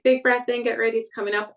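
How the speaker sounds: lifted, anticipatory heads-up; coaching cue. Shown as a demonstration. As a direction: cue a big breath like a coach. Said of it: "give me a quick warning".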